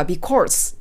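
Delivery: "because" sounding like "be-corse", with an R; R-tinged because. Shown as a demonstration. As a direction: slip an R into the vowel of "because". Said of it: "R音っぽいので".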